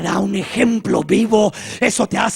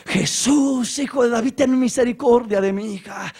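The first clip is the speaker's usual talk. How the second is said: mild mock cry for mercy; raised pitch, restrained calling out; understated imploring cry; 5 semitones higher than usual. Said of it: "seguía gritando y clamando".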